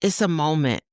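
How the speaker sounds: slow, gentle reading of an affirmation. Acted. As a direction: read it like a soothing letter to a mother. Rereads affirmation.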